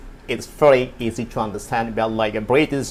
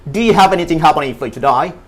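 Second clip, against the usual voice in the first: louder, higher Australian "today"; fast Australian accent; 3 semitones higher, 4 dB louder than usual. Shown as a demonstration. Teacher shows how locals speak, quick Australian accent. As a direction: run it together in Australian intonation. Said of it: "Tapi dorang cepat".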